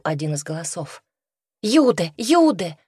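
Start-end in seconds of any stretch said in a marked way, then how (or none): 1.6-2.8 high, louder desperate cry; desperate shout. A narrator's reading. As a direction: call out with all hope. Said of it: "отчаянно закричала Ханна".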